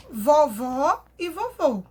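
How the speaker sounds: vovó with an open final O, vovô with a closed one; vowel contrast. Shown as a demonstration. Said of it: "deixar ela com o som aberto".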